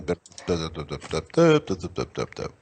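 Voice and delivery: choppy dub dub noises mimicking a bad line; garbled alien noise. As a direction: imitate a broken connection, jumping up and down. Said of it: "You're going".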